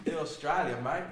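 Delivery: loud put-on Australian accent. Showing off to co-hosts, loud Australian accent. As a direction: toss it out in mock Australian. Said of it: "do that one pretty well".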